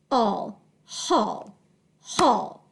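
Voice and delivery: "haul" built from h plus all; teacher chunking the sound "haul"; syllable sounded out. Shown as a demonstration. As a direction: blend h and all, then say "haul" cleanly. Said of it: "break this word apart".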